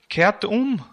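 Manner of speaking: hoch und laut gerufen; lauter Ruf. Acted. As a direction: ruf die Menge zur Umkehr auf. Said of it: "rief Johannes". (Johannes ruft der Menge laut zu)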